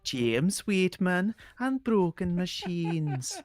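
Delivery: slow, lilting list with each item drawn out; stretched, sing-song character delivery; Ashley character voice. Acted. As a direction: play a game character craving excitement.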